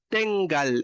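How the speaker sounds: "tengal" slowly, with its written accent clearly placed; acento marcado en tengal. Shown as a demonstration. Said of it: "con ese acento". ("tengal" despacio, marcando bien el acento)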